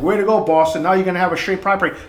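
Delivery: mocking "Way to go, Boston" with a sneer; sarcastic jeer. Outsiders sneering at Boston, sarcastic. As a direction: throw it out like a taunting outsider. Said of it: "Everybody's looking at Boston like".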